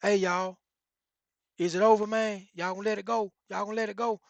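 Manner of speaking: Fly calling out to the men locked in the room; hollering. Retold or imitated. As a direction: holler in to the fighters. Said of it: "Fly was hollering".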